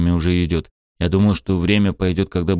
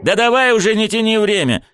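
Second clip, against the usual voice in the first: high, loud impatient snap; 14 semitones higher, 4 dB louder than usual. A narrator's reading. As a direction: hurry him up. Impatient hero.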